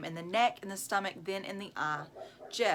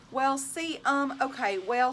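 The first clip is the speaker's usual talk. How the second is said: stammering; 5 semitones higher, 4 dB louder than usual. Acted. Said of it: "stammered Colleen".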